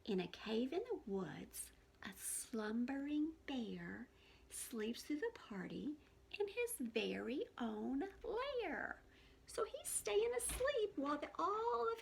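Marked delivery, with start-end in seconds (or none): 0.1-8.9 hushed, slow bedtime-story narration; storybook reading. A narrator's reading. Teacher reading a bedtime story to young listeners, hushed. Reads picture book to children.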